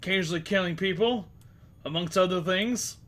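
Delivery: brigand voice. Acted. Brigand sneering at the party.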